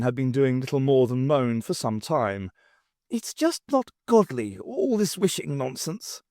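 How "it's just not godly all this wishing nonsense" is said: moaning. Acted. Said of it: "moaned Gubrius".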